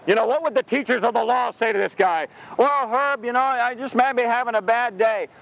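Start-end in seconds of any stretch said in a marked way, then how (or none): 2.6-5.3 mildly mocking, wishy-washy excuse; lightly acted mealy-mouthed teacher; mock namby-pamby. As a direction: gently hem and haw, half-mocking. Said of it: "it wasn't mamby-pamby".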